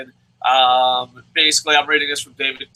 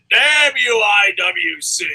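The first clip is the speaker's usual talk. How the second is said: mild mock curse; 5 semitones higher, 3 dB louder, slower than usual. Mock curse after breakup.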